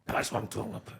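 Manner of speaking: voiceless, intense whisper; whispered excitement. Acted. Acting out reaction to drums coming in, excited whisper. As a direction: whisper it like a thrilled fan. Acted listener's thrill at drums.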